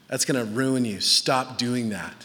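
low, measured counsel; wise warning. Acted. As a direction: speak a grave warning into someone's life. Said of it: "with wisdom and the gift of prophecy speaking".

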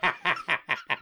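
quick high laugh; short amused laugh; snort of laughter. Real, not acted. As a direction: laugh as the impression starts. Laughs before the impression.

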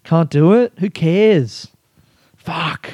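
exasperated at himself; frustrated. Real, not acted. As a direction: kick yourself for a missed chance. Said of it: "And now I just think".

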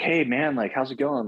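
bright high eager hello to a spirit; mock friendly greeting. Greeting the shadowy being, high and eager. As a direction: chirp a cheery hello up high.

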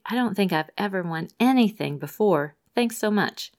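mildly excited read of a thank-you note; excited quote. Retold or imitated. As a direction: lift it a touch, like a thrilled prize winner. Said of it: "wrote excitedly to say".

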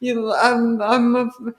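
hammed-up Italian-American accent; slow mock Italian-American tough guy; Goomba voice. Sniper introducing himself, Italian-American Goomba voice. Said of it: "doing that Goomba voice".

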